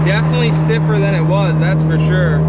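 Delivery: talking over road and wind noise; car windows down. Real, not acted. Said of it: "Sorry for any wind noise".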